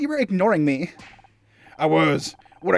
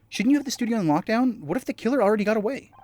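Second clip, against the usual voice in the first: higher-pitched anxious questioning; worried character; 5 semitones higher than usual. Acted. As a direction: pitch it up, pressing with concern. Re-reads line in character voice.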